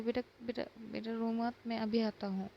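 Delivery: a touch of panic under reassurance; panicked comforting. Acted. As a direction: stammer a bit while trying to calm him. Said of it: "अबीर घबरा जाता है".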